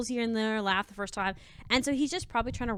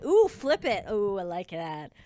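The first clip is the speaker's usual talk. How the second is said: excited ooh. Real, not acted. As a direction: react with delight. Excited reaction to comment.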